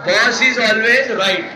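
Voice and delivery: slow, drawn-out movie line; film dialogue. Retold or imitated. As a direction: spell out the hero's line slowly. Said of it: "काय म्हणतो?". (फिल्मी dialogue, सावकाश)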